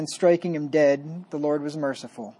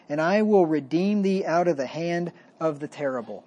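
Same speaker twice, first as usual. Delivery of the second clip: scripture reading. Acted. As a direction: read it like holy writ, weighty and measured. Reads scripture aloud.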